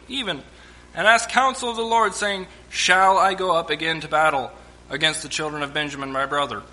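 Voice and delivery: measured Bible reading voice; preacher reading scripture to the church. Acted. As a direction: read the passage with weight. Reads scripture aloud to congregation.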